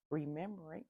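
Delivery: hiccuping mid-word; hiccups. Real, not acted. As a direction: talk through hiccups. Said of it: "I have the hiccups".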